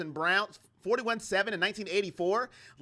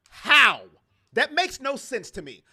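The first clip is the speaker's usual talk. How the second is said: incredulous how; 5 semitones higher, 8 dB louder than usual. Real, not acted. Ranting at a dumb idea.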